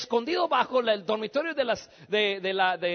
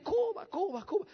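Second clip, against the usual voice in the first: Vasily; 8 semitones higher, 5 dB quieter than usual. Retold or imitated. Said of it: "la voz de Vasily gritar dentro de mí".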